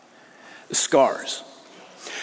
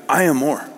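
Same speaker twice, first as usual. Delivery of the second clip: "I am more" said firmly, each word weighted; emphatic. Acted. Paul answering his rivals, "I am more" said emphatically. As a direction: assert "I am more" with conviction. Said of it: "can say emphatically".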